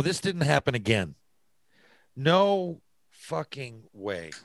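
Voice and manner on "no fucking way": stunned disbelief. Real, not acted. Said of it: "host reacts in disbelief".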